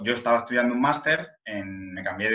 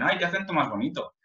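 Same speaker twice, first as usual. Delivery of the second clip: high, cooing imitation of a compliment; lightly voiced charmed American; mock admiring local; 7 semitones higher than usual. Quoting people who praise his accent, high cooing. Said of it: "Siempre te dicen".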